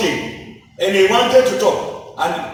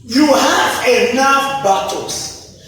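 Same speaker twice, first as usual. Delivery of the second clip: preaching at full force. Acted.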